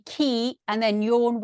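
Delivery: key, then yawn without its Y; syllable-by-syllable pronunciation. Shown as a demonstration. Colleague relaying how the storm name works, key then yawn. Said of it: "I was explained it should be".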